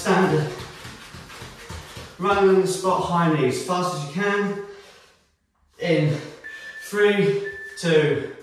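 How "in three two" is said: fitness coach cueing. Acted. Coaches during running exercise.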